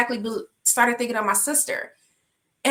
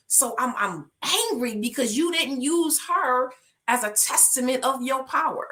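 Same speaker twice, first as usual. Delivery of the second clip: higher, pleading cry to God; impassioned plea; 4 semitones higher than usual. Retold or imitated. Telling God she prayed for her sister's healing, pleading high. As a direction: pour out your hurt to the Lord.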